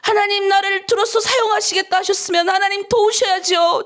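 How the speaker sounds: mock stubborn child demanding help; tantrum prayer. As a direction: throw a tantrum at God, half pleading. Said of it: "땡깡 부리는 거예요".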